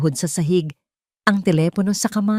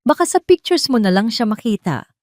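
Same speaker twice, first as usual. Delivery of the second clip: louder, higher taunting threat; menacing husband's threat; 6 semitones higher, 4 dB louder than usual. A narrator's reading. Richard threatens to take the child, menacing. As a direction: sneer the threat at her. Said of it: "Paulit-ulit na umuulit sa kanyang isipan ang banta ni Richard".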